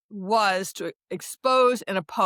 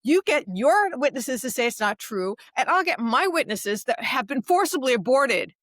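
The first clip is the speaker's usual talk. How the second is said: higher, insistent retold challenge; defiant challenge; 5 semitones higher than usual. Activist retelling her challenge to a hostile caller, defiant. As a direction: throw down the challenge, stressing each side.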